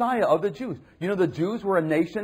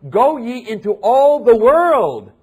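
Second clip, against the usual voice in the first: loud, slow, ringing proclamation; Jesus' command voiced in full; proclaiming command; 7 semitones higher, 11 dB louder, slower than usual. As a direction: boom out the great commission. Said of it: "when he says".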